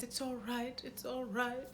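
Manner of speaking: high, soft repeated reassurance; mock soothing. Councilwoman hugging Sansa, mock soothing. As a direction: hush a crying child gently, in imitation. Councilwoman comforting the crying girl.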